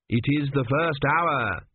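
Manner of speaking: slow, lightly voiced fussy priest; a hint of a pompous court priest; priest Kumi. Priest reciting the day's duties to the queen, slow and formal.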